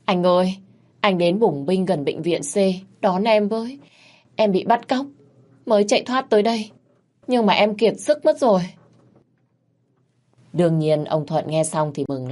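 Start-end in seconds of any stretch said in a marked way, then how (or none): 0.0-8.6 high, whining tearful plea; fake crying plea. Miệt begs her husband on the phone, a mock-tearful high whine. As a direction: pitch it up like a damsel begging rescue. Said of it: "nhưng lần này là mụ khóc".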